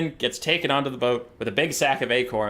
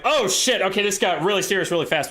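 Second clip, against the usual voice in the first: shocked; 4 semitones higher than usual. Acted. Lords shocked at bleeding king.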